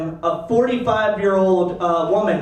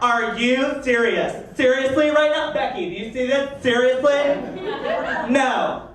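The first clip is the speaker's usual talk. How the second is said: snapping disbelief; 3 semitones higher, slower than usual. Retold or imitated. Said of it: "the lady snaps, turns and looks at the guy and goes".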